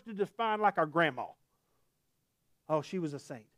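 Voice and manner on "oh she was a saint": softer, lower reverent aside; fond remembrance. Retold or imitated. Congregant speaking of grandma, soft fond remembrance. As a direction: say it low and soft, as if remembering her.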